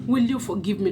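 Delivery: sincere plea, "Will you forgive me?"; mean every word of "Will you forgive me?"; from the heart. Shown as a demonstration. To the husband, a heartfelt plea. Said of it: "let it be shown from your heart".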